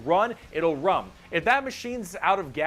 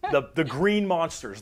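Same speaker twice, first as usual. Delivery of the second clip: ordinary talk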